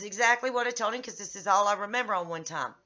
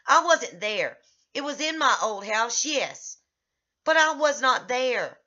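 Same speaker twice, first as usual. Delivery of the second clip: retold angry reply; 2 semitones higher, 3 dB louder than usual. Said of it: "you seem to be getting angry".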